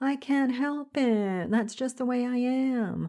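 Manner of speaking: play-acted high, whiny, complaining voice. Quoting a phrase that is a pet peeve: mock-whiny voice. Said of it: "had to put a whiny voice on that".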